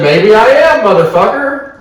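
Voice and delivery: high, loud defiant comeback, half laughing; pissed-off retort. Retold or imitated. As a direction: re-enact snapping back at a cop. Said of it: "I'm pissed".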